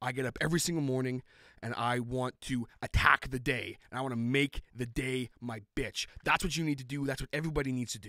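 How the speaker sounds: booming, loud, rousing motivational delivery. Answering an interviewer's question in character: Dwayne Johnson impression. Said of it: "That was my whole impression of The Rock".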